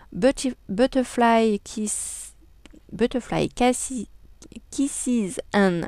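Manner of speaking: slow, careful English read with a French accent. Shown as a demonstration. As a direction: spell out the English slowly in a proudly French accent. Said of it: "mon superbe accent anglais". (anglais lent avec un fort accent français)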